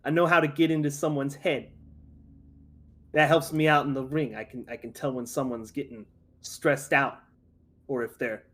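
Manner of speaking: a lightly held New York Italian-American boxer; casual tough-guy Italian-American bragging; Italian-American accent. Acted. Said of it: "just when I'm talking character".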